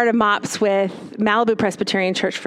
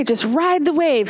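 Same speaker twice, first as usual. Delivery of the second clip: put-on "Just ride the wave." lifted higher and gentle, spoken to a child; 4 semitones higher than usual. Psychologist encouraging a sad kid, gently higher. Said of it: "she uses this with kids a lot".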